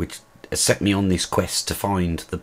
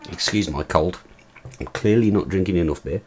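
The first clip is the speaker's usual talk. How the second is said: ordinary talk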